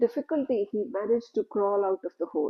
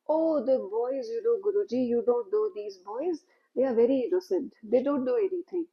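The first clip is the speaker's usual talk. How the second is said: mild and gentle; 3 semitones higher than usual. Acted. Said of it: "he said mildly".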